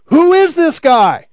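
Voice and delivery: incredulous onlooker; puzzled question. Retold or imitated. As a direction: ask it like the puzzled crowd. Crowd wondering about Jesus.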